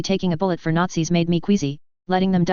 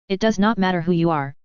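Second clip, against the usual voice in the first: lightly done fake German accent; a hint of hammy German. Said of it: "obviously fake German accent".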